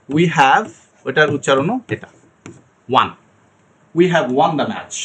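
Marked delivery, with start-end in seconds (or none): 4.0-5.0 slow, with won said like one; correct pronunciation. Shown as a demonstration. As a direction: model the right sentence slowly. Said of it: "না".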